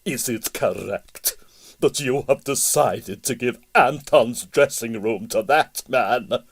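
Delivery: imperious mother, slow and pointed; a lightly voiced imperious Russian mother; demanding. A narrator's reading. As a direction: lay down the demand like a grand dame.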